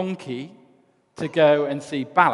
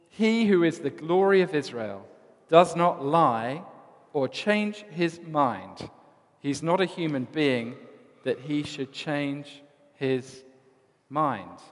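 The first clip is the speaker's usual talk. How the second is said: slow solemn pronouncement; slower than usual. Acted. Samuel pronounces to Saul.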